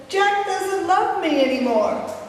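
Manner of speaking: high, drawn-out mock wail; imitated sobbing wail. Crying sister telling mother about Jack, imitated wail. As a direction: wail it slowly like a crying girl. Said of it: "crying got louder and became sobbing".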